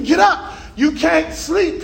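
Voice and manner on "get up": firm order. Retold or imitated. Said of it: "I shook him".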